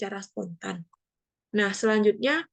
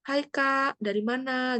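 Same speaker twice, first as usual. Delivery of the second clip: higher-pitched friendly greeting; sapaan akrab; 4 semitones higher, slower than usual. Acted. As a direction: act out a casual street greeting. Contoh sapaan bertemu di jalan. (sapaan santai bernada tinggi)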